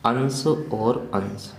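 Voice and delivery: अंश और अंश drawn out slowly; teacher dictating example words slowly; slow dictation. Shown as a demonstration. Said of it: "एक शब्द है अपना".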